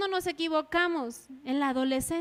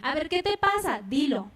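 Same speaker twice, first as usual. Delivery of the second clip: insistent mother. Acted. Mother pressing crying child.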